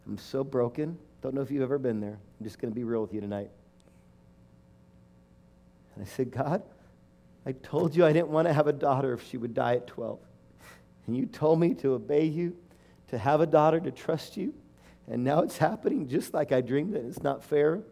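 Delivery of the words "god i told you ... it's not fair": raised, higher anguished complaint to God; a wounded protest, pitched up; hurt pleading. Retold or imitated. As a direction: pour out hurt and anger at God. Angry plea to God retold.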